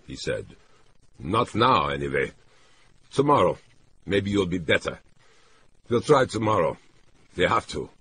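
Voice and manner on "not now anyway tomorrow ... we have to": lightly voiced man, pitched up, putting off plans; a hint of worried insistence; anxious man character. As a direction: reason with her, raised on each fresh phrase. Narrator voices man bargaining with her.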